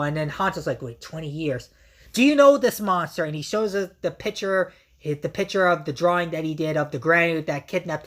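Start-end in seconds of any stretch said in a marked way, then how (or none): 0.8-3.2 urgent retold demand. Hanto demands the Granute name his mom's kidnapper, raised and loud. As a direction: demand an answer, suddenly raised.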